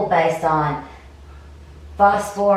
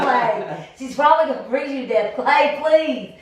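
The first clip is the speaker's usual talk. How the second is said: high, laughing, hammed-up begging; laughing mock plea; 7 semitones higher than usual. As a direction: tease him with a giggly plea. Mocking pleading, laughing.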